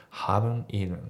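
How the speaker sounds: "haven't eaten" with the T of haven't left out; dropped T. Shown as a demonstration. Teacher showing natural speech, "haven't eaten" without the T. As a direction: run "haven't eaten" together, no T after the N. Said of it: "haven'tのTがね、まあ、ちょっと抜けてる".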